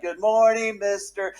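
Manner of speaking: high, singsong imitation of a children's chorus; high-pitched little kids. All the kids greet their teacher, imitated high little voices. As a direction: mimic tiny children chanting a greeting in unison. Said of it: "these little high-pitched, like, tiny little voices".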